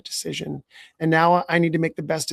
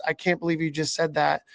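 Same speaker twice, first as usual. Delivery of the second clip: incredulous judging tone. Shown as a demonstration. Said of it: "in a tone of voice that says".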